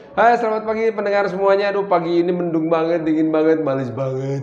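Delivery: lightly voiced chatty morning DJ; a hint of an on-air host greeting listeners; radio announcer voice. Shown as a demonstration. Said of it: "Kalau sebagai penyiar saya bisa ngomong gini".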